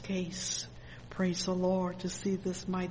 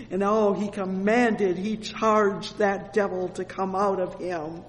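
emphatic praise with bursts of volume; fervent preaching; 5 dB louder than usual. Real, not acted. Preacher proclaims Jesus' authority over devils, fervent preaching. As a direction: proclaim the victory with conviction.

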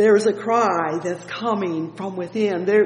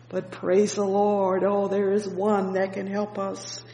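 ordinary talk, nothing marked

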